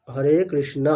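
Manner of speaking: Hare কৃষ্ণ with a final short a, "krishna"; correct Sanskrit pronunciation. Shown as a demonstration. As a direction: end কৃষ্ণ on a clear open a. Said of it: "উচ্চারণটা কেমন করতে হবে". (সংস্কৃত ঢঙে কৃষ্ণ-র শেষে স্পষ্ট অ)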